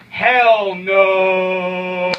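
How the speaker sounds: loud, forceful Hell no; shouted outright denial; emphatic shout. Acted. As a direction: bellow the refusal. Emphatic refusal to the question.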